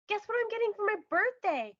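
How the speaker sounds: can hardly hold in the news; excited question. Acted. Hugo rides up with birthday news, excited.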